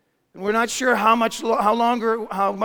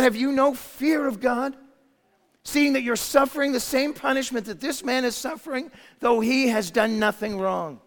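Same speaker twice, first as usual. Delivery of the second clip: rebuke; 5 semitones higher than usual. Acted. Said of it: "rebuked the first".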